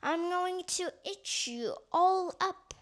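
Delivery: a lightly voiced sly cat; menacing cat voice. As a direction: purr it like a hungry cat. Cat's threat, far timbre.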